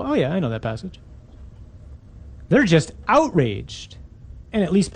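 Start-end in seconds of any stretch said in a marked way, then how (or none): 0.0-1.0 blasé. Acted. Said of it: "we just hear this and go".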